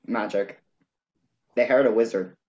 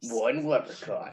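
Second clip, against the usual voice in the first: a hint of a dramatic trailer narrator; movie trailer voice; 5 dB quieter than usual. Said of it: "movie trailer voices".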